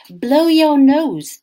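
slow firm mummy telling off; lightly voiced mother, slow and firm; mother to daughter, firm slow order; mother's order. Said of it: "said Mummy".

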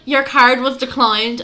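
slow, audible repeat. Retold or imitated. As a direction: say it out for someone who didn't hear. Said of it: "How dare you shout that".

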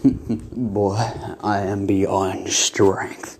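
slow, low whispered villain; whispery Lich voice. Acted. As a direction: breathe it out like an undead king.

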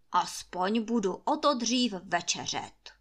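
grumpy master. Acted. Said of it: "míval spíše lepší náladu".

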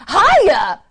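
high, loud, silly caller voice; Jim Davis voice. Pretend. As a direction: answer as a goofy cartoonist. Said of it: "that's what you sound like".

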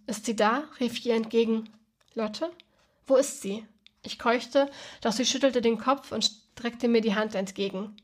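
calm, even reading of her own prose; story narration. A narrator's reading. Author reading her novel to listeners, steady narration. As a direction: carry the listener through the night gently.

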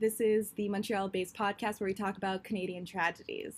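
podcast intro. Acted. Host welcoming listeners to her podcast, intro read.

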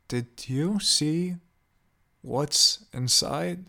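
slowed and cruel. A narrator's reading. Old woman probing Graves about the box, slow and cruel. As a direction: drag each word out with cruelty. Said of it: "Her voice slowed down, carrying with it a dreadful cruelty".

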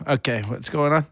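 Brooklyn deli owner voice; gruff New York deli guy greeting; Brooklyn accent. Pretend. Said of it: "You just sounded like a Brooklyn, like, deli owner".

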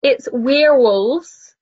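"werewolves" slow, stretched like "we are wolves"; Kiwi werewolves. Shown as a demonstration. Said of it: "in a Kiwi accent".

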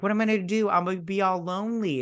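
high, quick imitation of whining; mock self-pitying whine. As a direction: whine helplessly, hammed up. Acting out abandoned mother's whine.

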